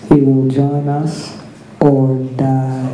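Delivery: a hint of a cold emperor. A narrator's reading. Emperor's verdict.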